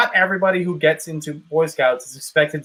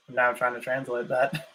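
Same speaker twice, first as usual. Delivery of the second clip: laughing; 3 semitones lower, 9 dB quieter than usual. Real, not acted. Laughing while puzzled.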